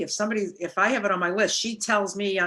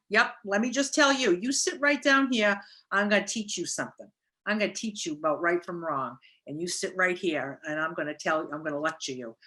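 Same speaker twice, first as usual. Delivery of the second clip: mildly mock a know-it-all lecturing; lightly playing someone lecturing a listener; lecturer. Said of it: "lecturing people".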